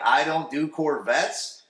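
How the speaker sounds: slow, drawn-out snooty brush-off; mock snobby girl. Imitating the blonde turning Steve down, slow and snooty. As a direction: stretch it out like a rich girl. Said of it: "a hot piece of ass is like".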